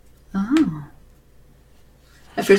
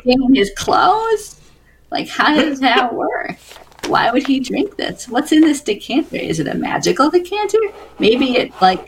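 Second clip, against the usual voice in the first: in-character musing; 7 semitones higher than usual. Acted. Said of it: "Jeffy's saying this out loud".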